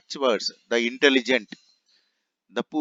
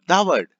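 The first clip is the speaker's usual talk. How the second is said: "the" set apart and louder before "word"; stress on THE; 7 semitones higher, 8 dB louder than usual. Shown as a demonstration. Teacher explaining the verb's importance, stressed "the". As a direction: hit "the" as a full "dhaa". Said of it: "with emphasis to give a force".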